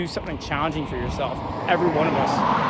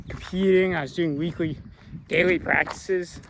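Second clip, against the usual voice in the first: breathless after a long run; panting between words; out of breath. Real, not acted. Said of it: "I'm out of breath".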